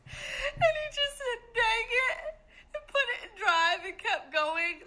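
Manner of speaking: crying with laughter, high; words squeezed out through laughter; laughing hard. Real, not acted. Retelling the movie scene while laughing helplessly.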